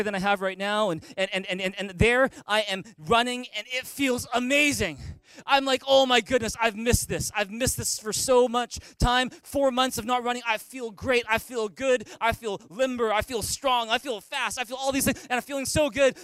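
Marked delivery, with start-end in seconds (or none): 5.5-16.2 excited. Retold or imitated. Retelling joy of running again.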